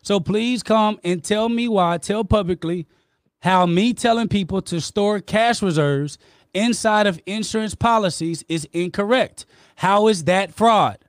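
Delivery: arguing back hard with the host, voice up. Real, not acted. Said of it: "raising my voice with you".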